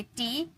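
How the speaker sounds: टी with a long ee at the end; pronunciation model. Shown as a demonstration. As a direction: model टी clearly for learners. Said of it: "इसे हम कहेंगे". (टी में लंबी ई का उच्चारण)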